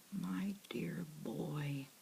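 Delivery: very slow, heavy whisper; depressing voice. Acted. Watchman dashing Lionel's hopes, depressingly slow. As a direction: drag the words out with gloom. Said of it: "in that depressing voice again".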